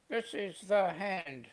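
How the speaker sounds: lightly voiced puppet, drawn out slowly; a hint of a slow puppet voice; ventriloquist's hand puppet. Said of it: "all we need is a ventriloquist".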